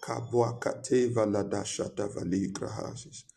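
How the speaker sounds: passionate praying aloud; fervent prayer. Acted. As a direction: pray with fervour.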